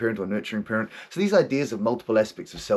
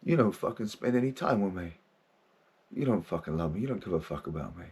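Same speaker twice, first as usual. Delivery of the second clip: hurt inner voice, fading softer and softer; wounded voice; 2 semitones lower, 5 dB quieter than usual. Retold or imitated. Wounded inner self accusing the man who ignored him, quietly hurt. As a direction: let the wounded part lash out and then sink away. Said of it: "this real wounded voice inside was like".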